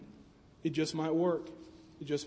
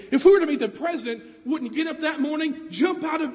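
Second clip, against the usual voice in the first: eager; 4 semitones higher than usual. Shown as a demonstration. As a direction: rush it out like meeting the president. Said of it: "if, if we were to meet the president".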